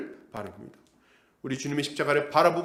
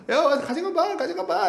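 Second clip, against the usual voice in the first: much higher, lightly voiced jeering dare; mocking taunt; 10 semitones higher than usual. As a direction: taunt him to come take it. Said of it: "막 웃으면서".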